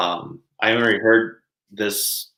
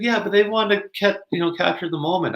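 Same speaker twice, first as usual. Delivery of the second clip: mom's voice; 9 semitones higher than usual. Retold or imitated. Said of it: "she's like".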